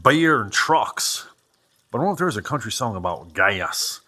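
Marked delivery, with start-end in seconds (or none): 0.0-1.3 slow, drawn-out mock southern twang; terrible southern accent. Musing on country songs about beer, terrible southern accent. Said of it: "terrible southern accent". 3.3-4.0 "gas" broken into a southern "gay-us"; southern accent. Acted. Wondering about a country song, terrible southern accent. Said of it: "You think that's how they say it down south?".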